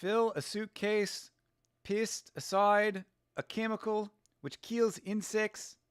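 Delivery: put-on slow New Zealand accent, flattened vowels; Kiwi accent. Rereading the phrase to practise a New Zealand accent. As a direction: say it slowly like a Kiwi. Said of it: "speak with a New Zealand accent".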